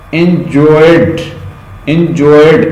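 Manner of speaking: "انجوائڈ" ending in a voiced D; teacher showing the D ending of "انجوائڈ"; final D sound. Shown as a demonstration. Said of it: "ڈا sound دے رہا ہے".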